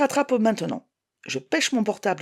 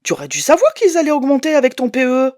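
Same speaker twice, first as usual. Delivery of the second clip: curt, reproachful, slightly louder; a bit stiff; 5 semitones higher, 6 dB louder than usual. Acted. Ex-husband reproaching her, a bit stiff. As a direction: lecture her, a little stiff. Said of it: "un peu raide".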